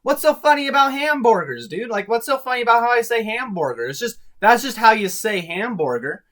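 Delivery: high, loud mock indignation; egging them on. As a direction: play up the outrage to egg them on. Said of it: "egged them on a bit".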